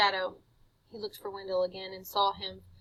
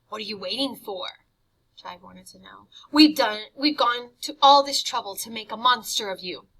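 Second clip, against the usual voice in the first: impatient tempter; 10 dB louder than usual. Acted. Jive impatient with Harvey.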